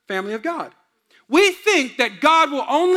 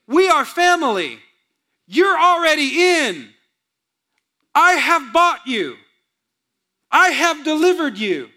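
slow, earnest voice of God claiming his people; a lightly voiced loving God; 3 semitones higher, 5 dB louder than usual. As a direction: speak as God, tender and certain.

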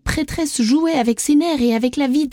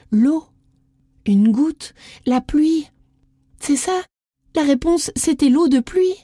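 high, eager discovery; the answer bursts out of her; excited; 6 semitones higher than usual. A narrator's reading. Isadora finding the riddle's answer, high and excited.

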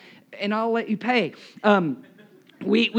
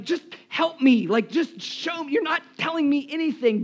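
higher-pitched mock pleading; acted exasperation; 6 semitones higher than usual. Hungry diner to unhelpful waiter, acted exasperation. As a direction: plead in frustration, as if retelling it.

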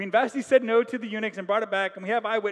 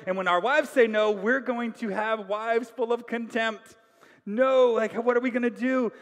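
loud, urgent plea building to the king; urgent advisor; 3 semitones higher, 6 dB louder than usual. Acted. Advisor warns the king the wives will rebel, loud and urgent. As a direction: press the king hard, rising alarm. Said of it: "Memucan is like".

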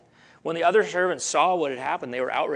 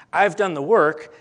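emphatic proclamation; 3 semitones higher, 8 dB louder than usual. Acted. Jesus's words, voiced emphatically.

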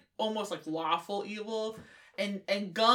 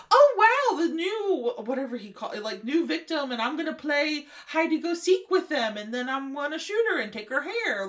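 excited; 5 semitones higher, 3 dB louder than usual. Retold or imitated. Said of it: "he was just like".

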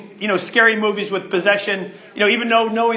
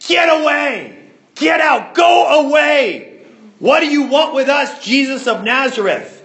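shrieking demon; 6 semitones higher, 4 dB louder than usual. Acted. Demon heckling Jesus as he teaches, shrieking. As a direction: cry out as a possessed man shrieking. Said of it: "The shrieking is".

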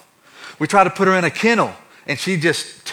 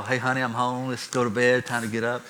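soft whisper; 4 semitones lower, 8 dB quieter than usual. Retold or imitated. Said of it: "just whisper".

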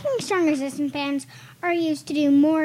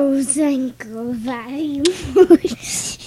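fight promoter voice; 5 dB louder, much slower than usual. Acted. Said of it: "a Georgian gangster slash fight promoter".

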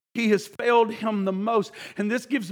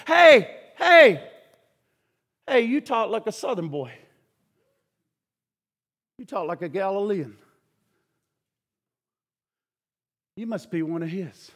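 lightly voiced servant girl, taunting then hushed; accusing servant girl; 4 semitones lower than usual. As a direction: needle Peter by the fire.

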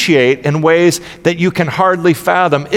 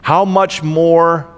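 Jesus-y voice. Acted. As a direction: read it as if Jesus speaks to each listener, unhurried. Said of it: "in my best, um, Jesus-y voice".

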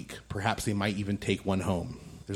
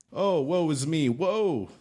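hammed-up woe; mock lament; 4 semitones higher than usual. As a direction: wail it theatrically but lightly. Bartender laments.

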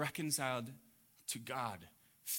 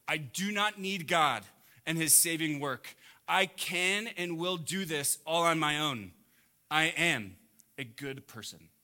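proud self-reliant boast; 2 semitones higher, 5 dB louder than usual. Acted. Prideful person quoted in sermon.

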